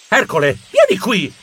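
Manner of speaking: a touch of a squawk, rising at the end; urgent cry. Acted. Geronimo calling hidden Ercole back, mild urgent cry. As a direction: call him over urgently.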